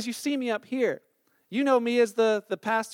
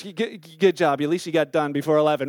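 mock faint praise; 6 semitones lower than usual. Mocking awkward church compliments.

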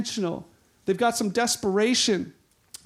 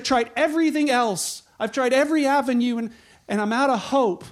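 higher, acted exasperation easing off toward the end; retold desperation; 5 semitones higher, 4 dB louder than usual. Sick woman who spent all on doctors, mildly desperate. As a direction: play someone who has run out of options.

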